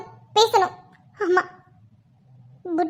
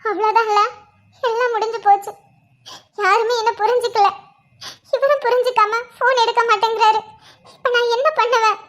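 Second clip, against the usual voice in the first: despairing, with sniffs between phrases; tearful despair. Acted. Girl alone after he ignores her calls, tearful despair. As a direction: lament it through restrained sobs.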